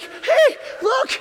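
put-on extremely high, loud child call; a son calling his dad to see; excited kid shout. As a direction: call out thrilled.

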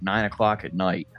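usual speaking voice

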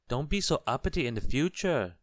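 high, loud goblin warning. A narrator's reading. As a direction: drive the warning home as a little goblin. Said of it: "warned the goblin".

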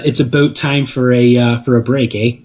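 mock Canadian, rounded "about" and tagged eh; Canadian accent. Co-host calling the break, mock Canadian accent. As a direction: put on a light Canadian accent. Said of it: "I can do the Canadian accent".

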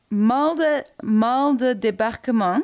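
'mal de débarquement' said slowly in French; French pronunciation. Shown as a demonstration. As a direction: try the French term carefully. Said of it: "Gotta work on your accent a bit".

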